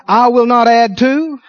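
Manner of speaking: slow, deliberate declaration; said out loud. Shown as a demonstration. Preacher leading the congregation in a declaration, said out loud. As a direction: lead a vow aloud, phrase by phrase. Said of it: "Said out loud".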